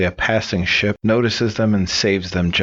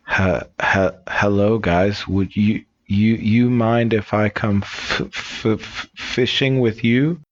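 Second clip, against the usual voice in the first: stammering Pete, stuck on each start; halting stammer on every first sound; stuttering; 3 semitones higher, slower than usual. Acted. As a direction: act out a nervous stutter, slowly. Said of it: "Pete has a stutter".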